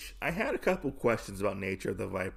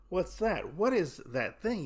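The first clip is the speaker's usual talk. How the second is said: curious fisherman; 6 semitones higher than usual. Retold or imitated. Fisherman spots something, voiced.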